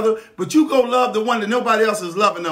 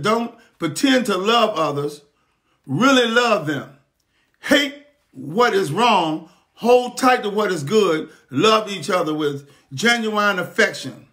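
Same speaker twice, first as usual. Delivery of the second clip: scripture reading; slower than usual. Acted. Reads scripture to the congregation.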